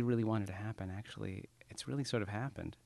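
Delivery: half-whispered, then trailing very soft; hushed inner thought. Retold or imitated. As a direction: murmur it like a private thought to yourself. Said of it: "wake up and think".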